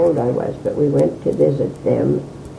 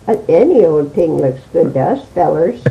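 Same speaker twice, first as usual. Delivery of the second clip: louder, swooping imitation of his accent; Riley's accent; 6 dB louder than usual. Riley's punchline to his dance partner, imitated accent. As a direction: deliver the punchline in a lightly put-on accent. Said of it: "with his accent".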